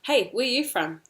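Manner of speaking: casual question opening on "Hey"; posing a question. Shown as a demonstration. Someone asks the learner, casually questioning "where are you from". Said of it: "if someone was like to you".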